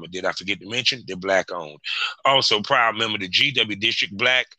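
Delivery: practised host intro and ad read; podcast host's opening spiel; podcast sponsor read. Acted. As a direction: rattle through the sponsor plugs.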